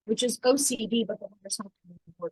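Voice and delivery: muffled, as if through a hand. Real, not acted. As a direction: speak with a hand over the mouth. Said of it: "uh, muffled out a little bit".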